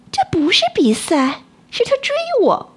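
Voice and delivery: high, hurt and wronged; aggrieved, wronged cat voice. A narrator's reading. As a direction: complain like a wronged kid. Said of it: "梨花委屈地说". (委屈地说)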